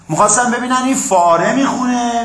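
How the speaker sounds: ordinary talk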